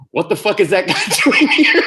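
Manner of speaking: the furious politician done through giggles; laughing mock outrage. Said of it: "Mark McKinney's like".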